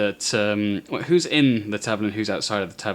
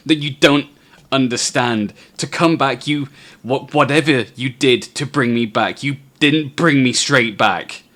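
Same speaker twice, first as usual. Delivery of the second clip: frantic; 3 semitones higher, 5 dB louder than usual. Acted. Kevlan frantically recounts the afterlife.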